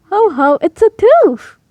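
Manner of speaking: slow, loud, chuckling daddy voice; laughing Daddy Pig. Acted. Daddy Pig laughing at the fallen tooth. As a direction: laugh it out heartily. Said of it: "laughed Daddy Pig".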